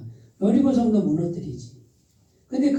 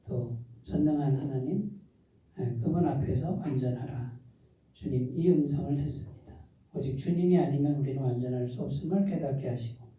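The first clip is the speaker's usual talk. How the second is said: softer, lower prayer voice; closing prayer; 5 semitones lower, 6 dB quieter than usual. Acted. Pastor leads the congregation's closing prayer, softly. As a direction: pray it quietly to close the sermon.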